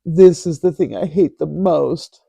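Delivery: a hint of a shaky, sad voice; mock sad shaky voice. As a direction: lightly imitate a trembling sad girl. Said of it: "sad, shaky voice".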